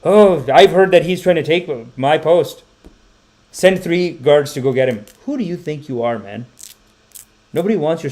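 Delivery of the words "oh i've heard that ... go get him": mock paranoid politician. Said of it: "The politician says".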